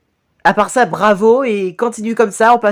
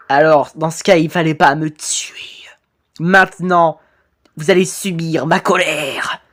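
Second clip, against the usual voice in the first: low, hushed menacing phantom; vengeful ghost; 3 semitones lower than usual. Acted. Murdered ghost announcing his anger to victim, low hushed menace. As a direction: deliver the threat darkly, pitched down.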